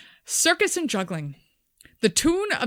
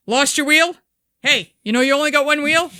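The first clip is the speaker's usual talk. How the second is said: mocking bloke; 6 semitones higher, 7 dB louder than usual. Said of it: "Minor variation".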